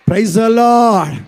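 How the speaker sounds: drawn-out ringing shout of praise. Real, not acted. Preacher shouting praise to the congregation, drawn out. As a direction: call it out to the whole church.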